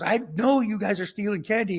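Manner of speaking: high, accusing mock shout from the store owner; retold yell. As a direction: catch the kids like an angry shopkeeper. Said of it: "he yelled at us".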